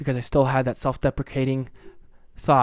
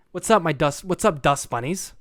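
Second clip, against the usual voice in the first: louder, hyped host greeting; trying out a louder intro greeting; podcast intro greeting; 4 semitones higher, 4 dB louder than usual. Shown as a demonstration. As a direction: greet the fans like opening a show. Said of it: "call you guys dust bunnies".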